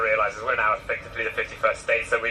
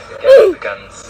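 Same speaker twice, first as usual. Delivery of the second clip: shout; 12 semitones higher, 15 dB louder than usual. Real, not acted. Street interviewee answering "Guns?.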